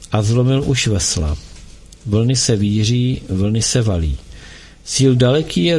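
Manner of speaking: solemn recital of a sad poem. A narrator's reading. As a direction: let each line of the poem breathe.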